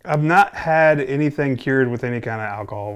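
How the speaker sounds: talking around pipe stem; speaking while puffing pipe; pipe in mouth. Real, not acted. Seen 0: Pipe held at lips throughout; away from mouth by 4.8.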